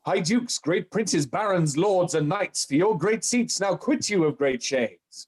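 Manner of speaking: slow, declaimed roll call of nobles; commanding French king. Acted. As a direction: summon the lords in stately verse. Acts the king's rallying speech.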